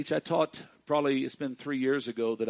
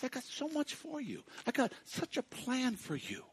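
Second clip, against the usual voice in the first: 1 voice of God; 9 semitones higher, 4 dB quieter than usual. Acted. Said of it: "God says".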